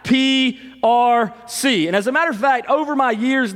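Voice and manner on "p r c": slow, higher chanted reply; imitated yell back. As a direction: answer like the stands, letter by letter. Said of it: "we would yell back".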